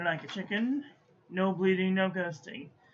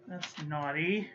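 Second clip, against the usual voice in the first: low, slow little tut at the ink; mock scolding; 4 semitones lower, slower than usual. Real, not acted. Reviewer scolding a bleeding ink, mock stern. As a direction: tell the ink off like a naughty pet.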